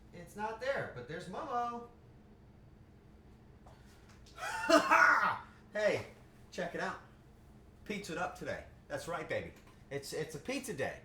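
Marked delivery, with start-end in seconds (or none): 4.2-5.5 high, loud burst of laughter. Real, not acted. Streamer laughs loudly on seeing Momo. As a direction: cackle out loud. Spots her cat Momo.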